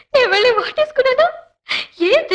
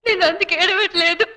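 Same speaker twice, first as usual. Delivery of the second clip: tearful; 2 semitones lower than usual. Acted. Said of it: "ఎందుకు అనవసరంగా ఏడుస్తున్నావు".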